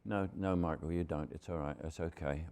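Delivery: softly soothing, imitating a wife; reassuring wife. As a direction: gently talk a husband down. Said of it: "my wife always said".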